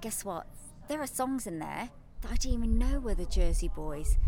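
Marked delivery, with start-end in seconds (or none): none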